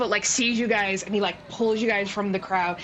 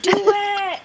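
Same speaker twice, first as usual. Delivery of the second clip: high, drawn-out crowd cheer; raised, insistent crowd demand; crowd calling out; 10 semitones higher, 5 dB louder than usual. Acted. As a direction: call it out like an eager audience. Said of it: "everyone starts being like".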